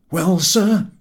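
put-on hearty old seaman; old sailor voice. A narrator's reading. Captain voiced by narrator.

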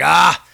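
mock cry of burning pain. Patient with his arm on fire, crying out in pain. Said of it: "my arm is on fire".

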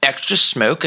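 eager shop clerk. Retold or imitated. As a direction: rattle off the gear like a keen clerk. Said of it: "He's like".

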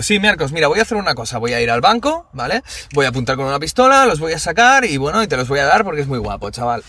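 mock agreement, laying it on for one person; sarcastisch. Shown as a demonstration. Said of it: "por el tono, porque va dirigido".

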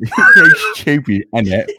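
mocking repeat. Repeating friend's line mockingly.

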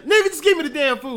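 fast, loud, high exasperation; impatient outburst. Retold or imitated. Speaker voicing people fed up with word quibbles, impatient. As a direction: cut in with mock irritation.

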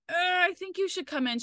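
high, hedging mock-nurse advice; imitated nurse urging. Imitating a nurse advising the partner on the phone, high-pitched. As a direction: pitch it up, drawing out the hesitation.

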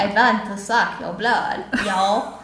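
1 vampire voice. Pretend. Joking vampire impression.

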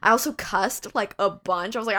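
ordinary delivery

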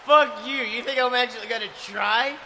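loud boastful wrestling rant; shouted heel promo. Acted. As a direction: yell it at the interviewer.

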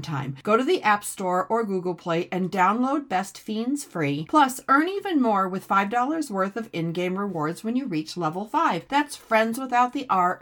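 upbeat sponsor read with the catchy slogan. Acted. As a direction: sell the game like a friendly radio spot.

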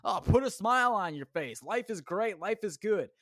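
lightly mocking sing-song of cheerful advice; mocking quote. Mocking the positivity crowd, light sarcastic mimicry. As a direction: parrot the smile-and-be-happy crowd with a sneer. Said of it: "like everyone says".

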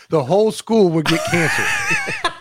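cracking up while declaring the whole school is doomed; laughing shout. Real, not acted. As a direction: yell it out through laughter. Joking about getting fired.

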